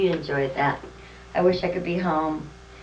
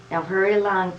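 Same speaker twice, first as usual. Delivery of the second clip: Santa urging; 3 semitones higher, 5 dB louder than usual. Acted. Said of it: "said Santa".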